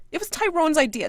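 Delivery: high loud repeated shriek; screaming. Acted. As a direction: shriek it again. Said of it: "she screams".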